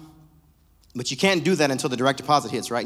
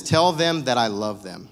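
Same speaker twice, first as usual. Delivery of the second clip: tender voice of God; 5 semitones lower, slower than usual. Retold or imitated. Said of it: "but he always says".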